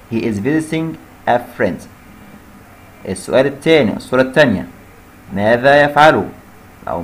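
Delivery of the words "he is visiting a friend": slow dictation. Shown as a demonstration. Teacher reading the answer slowly to students. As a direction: answer read slowly and clearly. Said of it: "يزور صديق".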